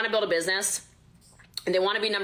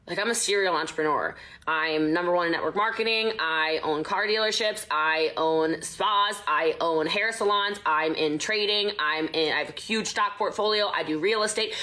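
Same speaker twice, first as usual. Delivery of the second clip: rattled-off brag list. Retold or imitated. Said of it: "why do you say it like that".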